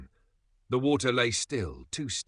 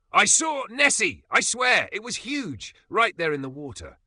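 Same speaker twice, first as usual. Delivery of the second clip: much higher, louder giddy squeal; giddy tipsy excitement; 12 semitones higher, 7 dB louder than usual. A narrator's reading. Tipsy Emma rushing to tell the cat, giddy and loud. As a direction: burst out with it, giggly and tipsy. Drunk Emma insisting she saw Nessie.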